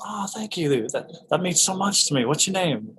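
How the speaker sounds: a hint of Oldman's kind reply; Gary Oldman. Oldman voiced in retold anecdote.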